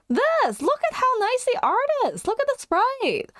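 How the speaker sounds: high-pitched excited showing off; excited gushing. Real, not acted. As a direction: gush in a high, delighted squeal of words. Gushing over the revealed art.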